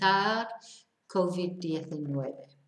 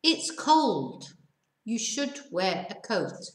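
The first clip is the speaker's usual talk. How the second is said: slow reading. Shown as a demonstration. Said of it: "voy a leerlo, lento".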